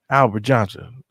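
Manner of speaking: manager calling a name, a bit loud; mock calling out. New manager summons an old worker over, calling out.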